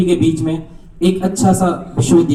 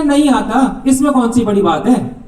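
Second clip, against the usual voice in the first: higher, breezy dismissive reply; cocky shrug; 4 semitones higher than usual. Retold or imitated. Heckler tells the archers he can't shoot, breezy and cocky. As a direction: toss it off like it's nothing. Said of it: "कह रहा".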